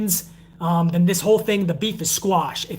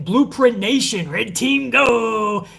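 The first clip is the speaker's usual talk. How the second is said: slow catchphrase call; 3 semitones higher, much slower than usual. Real, not acted. Repeats channel catchphrase.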